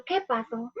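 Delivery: teacher stopping the story on a cliffhanger; suspenseful question. Shown as a demonstration. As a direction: leave the class hanging. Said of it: "me quedo en suspenso y digo".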